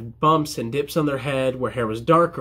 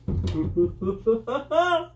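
giddy little laugh; giddy chuckle; 7 semitones higher than usual. Real, not acted. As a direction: giggle with mischievous glee. Chuckles at favourite question.

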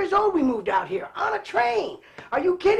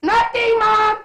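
put-on higher, a kid's nervous denial; scared voice; 7 semitones higher, 5 dB louder, much slower than usual. Boy hiding the backyard fire from his mom, scared. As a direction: sound caught and guilty. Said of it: "with this scared voice".

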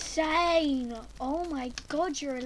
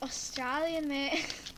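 playful, lightly put-on Australian accent; 4 dB quieter, slower than usual. Showing a friend the impressions, light Australian accent. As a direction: drop into a mock Australian accent. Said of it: "I was doing American and Australian and English".

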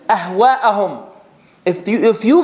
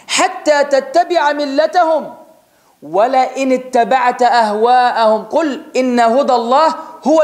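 fast, chanted Quranic recitation; much faster than usual. Acted. Preacher recites the verse to his audience, chanted. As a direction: recite the verse in one flowing breath.

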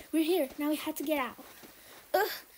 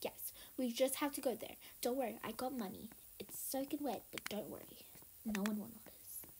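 low, soft whispered reassurance; sneaky whisper; 6 semitones lower, 7 dB quieter than usual. Pretend. Soaked kid telling sister to sneak in, whispered. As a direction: hush it so no one notices.

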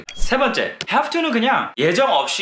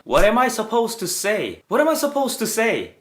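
slow, pitched-up, exasperated question; exasperated demo; 6 semitones higher, much slower than usual. Shown as a demonstration. Teacher demos the English line slowly, exasperated. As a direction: drag it out like you're stuck. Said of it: "이렇게 할 수 있습니다".

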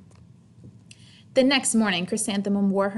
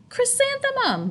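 giggly answer. Acted. Children answer teacher.

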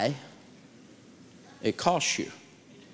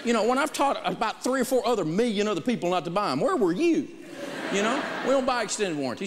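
laughing; 9 semitones higher than usual. Retold or imitated. Laughing incredulous retelling.

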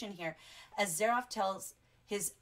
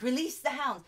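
louder, higher playful order; mock villain command; 5 semitones higher, 5 dB louder than usual. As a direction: call it out like a hammed-up villain.

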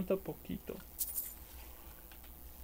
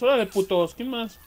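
taunting shout; 2 semitones higher, 6 dB louder than usual. Real, not acted. Gamer taunting enemies.

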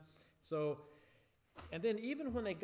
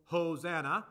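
Santa belly laugh ho, ho, ho, louder and slowed; 7 dB louder, slower than usual. Shown as a demonstration. Leader teaching kids the Santa part of the song, jolly. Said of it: "Santa Claus laughs".

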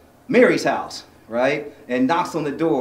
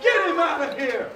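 King Herod; 13 semitones higher than usual. Acted. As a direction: lord it over the prisoner. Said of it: "I am Herod".

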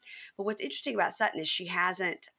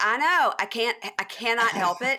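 higher and louder, mock exasperated; exasperated protest; 4 semitones higher, 3 dB louder than usual. Telling family she can't help her accent, loud mock exasperation. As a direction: throw up your hands, can't help it. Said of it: "I was like".

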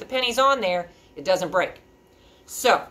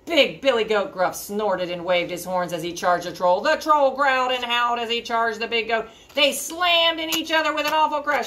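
rising, louder action narration; climactic narration; 6 semitones higher, 5 dB louder than usual. A narrator's reading. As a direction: build urgently toward the crash.

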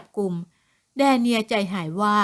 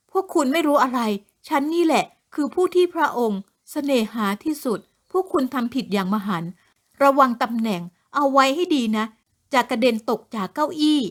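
haughty warning; 2 semitones higher than usual. Acted. Woman warning officers they will lose their posts, haughty. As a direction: look down on them and warn.

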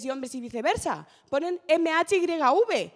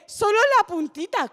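mock wheedling excuse; 6 semitones higher, 5 dB louder than usual. Mock quote of lover's excuse.

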